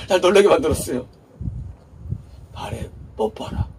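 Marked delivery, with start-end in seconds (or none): 2.5-3.7 hushed quote. Retold or imitated. Retelling God's surprising command.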